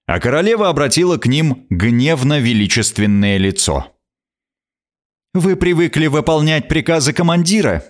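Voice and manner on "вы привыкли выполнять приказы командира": a hard, stern queen; harsh. Acted. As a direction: lay down the law coldly. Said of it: "произнесла она жёстко".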